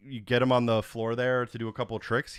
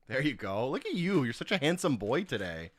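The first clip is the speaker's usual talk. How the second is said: praising the dog; 2 semitones higher, 3 dB quieter than usual. Real, not acted.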